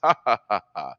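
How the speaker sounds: loud, exaggerated ha-ha-ha; mock laughing. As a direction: laugh mockingly at a rival's flop, hammed up. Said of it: "We can laugh".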